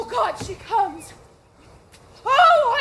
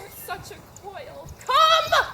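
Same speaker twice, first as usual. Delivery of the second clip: impatient; 2 semitones higher, 5 dB louder than usual. Acted. Juliet snapping at nurse.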